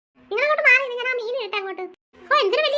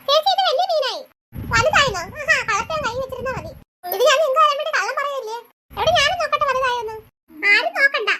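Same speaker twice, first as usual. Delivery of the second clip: loud squabble; 4 semitones higher, 5 dB louder than usual. Acted. Kids squabble over the fish.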